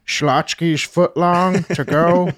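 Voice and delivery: slow drawn-out order call over a speaker; loudspeaker call. Acted. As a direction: announce the order like a PA system.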